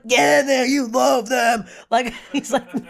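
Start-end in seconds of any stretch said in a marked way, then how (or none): 0.1-1.7 flirty tease. Retold or imitated. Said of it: "I was like".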